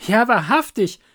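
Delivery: high, loud, delighted reply; eager Hans. Acted. Hans thanking the miller for asking, eager.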